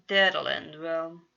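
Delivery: sarcastic groan. A narrator's reading. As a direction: drag out the sarcasm. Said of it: "Janice groaned".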